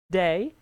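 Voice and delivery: "Day" swept upward like a question; high intonation. Shown as a demonstration. Teacher isolating the question tune, "Day" with rising pitch. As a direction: let "Day" climb at the end. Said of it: "that's the high intonation".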